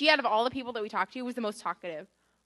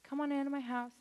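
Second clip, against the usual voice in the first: higher-pitched imitation of a sweet hostess; welcoming; 5 semitones higher, 3 dB quieter than usual. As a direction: invite them in, imitating a kind host. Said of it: "so sweet and so welcoming".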